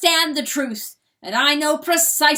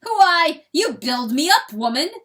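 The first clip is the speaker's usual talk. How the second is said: louder, higher, swelling with pride; triumphant boast; 4 semitones higher, 11 dB louder than usual. A narrator's reading. Rooster boasting his might to hen, loud triumph. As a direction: thunder his own power in triumph.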